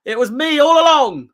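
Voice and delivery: Scooby-Doo villain reveal. Acted. Fan finishing the meme's villain reveal, mock-dramatic. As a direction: play the unmasked culprit, a touch theatrical. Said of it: "like the old Scooby-Doo meme".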